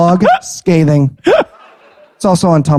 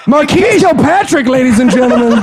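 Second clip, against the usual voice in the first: announcer intro; 6 semitones higher than usual. Acted. Showman presenting a puppet act.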